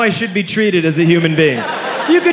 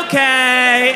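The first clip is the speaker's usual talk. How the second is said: meek acceptance; 6 semitones higher than usual. Retold or imitated.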